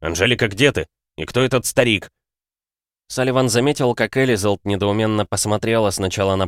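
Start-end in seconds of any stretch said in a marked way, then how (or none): 0.0-2.1 through a tube. Acted. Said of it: "Удивление в голосе сменилось раздражением".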